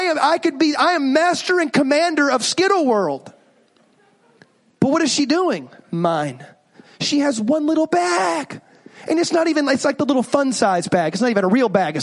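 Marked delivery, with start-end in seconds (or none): 5.9-6.4 low pouty mine; stubborn child. Retold or imitated. Daughter guarding her Skittles, pouting. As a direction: clutch your candy and pout.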